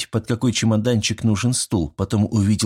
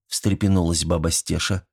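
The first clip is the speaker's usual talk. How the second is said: ordinary delivery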